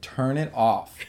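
first, restrained order to switch it off; retold demand, held below a yell; firm but not yet shouting. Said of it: "and I said".

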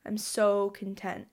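soft, slow contentment; contented sigh. Acted. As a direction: sigh it out softly, savouring it. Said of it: "I will just feel this feeling in my chest".

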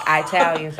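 "Italians" with a long I like eye; deliberately wrong first vowel in "Italians", said EYE; mock mispronounced Italians. Shown as a demonstration. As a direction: repeat "Italians" as eye-TAL-yuns. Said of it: "That's the racist way to say it".

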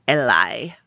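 low, hushed "a lie"; revealing the rumor was a lie; whisper. Acted. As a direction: drop to a secretive whisper. Dramatic reveal of fake rumor.

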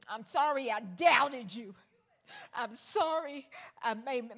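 broken, weeping repentance; tearful apology. Retold or imitated. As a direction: sob out the apology to God. Repentant prayer, crying heard.

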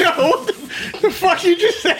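high-pitched, slowed laugh through the words; can't get the question out for laughing; real giggling shock; laughing disbelief. Real, not acted. Cohost laughs at a slip.

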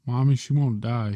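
put-on child yelling to his mother; loud complaining cry. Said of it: "he yelled".

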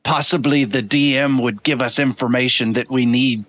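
lightly voiced formal, deliberate character; measured, formal adviser. Adviser urging the group to eavesdrop, measured and formal. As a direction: counsel the party in careful, formal phrases.

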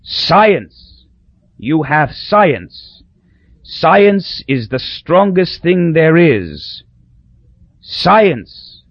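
high, slow, far-off delirious rasp; dying Papa. Acted. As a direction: rave like a dying old dictator. Dying dictator raving.

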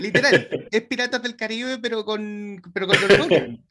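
bursting with excitement; excited. Real, not acted. Host gushes to the author about the epic feel.

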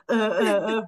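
choked croak, the voice failing; imitating a voice that won't come out; strangled voice. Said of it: "falan yapıyor".

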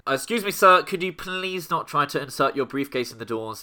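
polite train guard voice; stern but polite guard announcement; train station announcement. Pretend. Tube guard addressing passenger.

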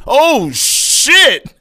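high, loud shriek of shock; horrified mock scream. Lady sees the crash victim's face, horrified shriek. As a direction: shout it sky-high, drawing it out.

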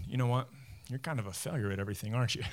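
whiny, fast inner critic; crybaby voice. Retold or imitated. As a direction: sneer it like a nagging inner voice. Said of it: "This is my four o'clock crybaby voice".

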